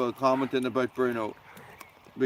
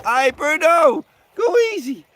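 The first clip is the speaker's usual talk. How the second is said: higher and louder, slow on Bruno; calling to the dog; 12 semitones higher, 8 dB louder than usual. Real, not acted. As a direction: plead with the dog to calm down.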